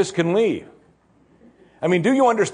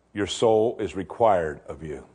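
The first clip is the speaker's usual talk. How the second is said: solemn verdict; 6 semitones lower, slower than usual. Retold or imitated. God passing sentence on the rich fool, low and grave.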